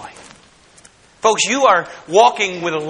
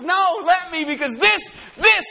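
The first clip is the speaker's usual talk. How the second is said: joyful God; 10 semitones higher, slower than usual. Acted. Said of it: "no, he says".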